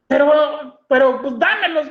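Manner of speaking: high, loud imitation of a pleading mother; protesting mother. Mother wanting the cigarettes from her son, protesting.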